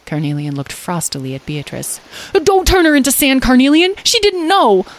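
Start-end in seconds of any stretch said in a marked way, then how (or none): 2.4-4.9 high, loud, urgent plea; pleading high character voice; exclaiming. A narrator's reading. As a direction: cry out in alarm to intervene. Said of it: "Lyle exclaimed".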